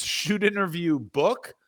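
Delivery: "Shoot interview book" said slowly, word by word; slow, drawn out. Shown as a demonstration. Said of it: "If he says".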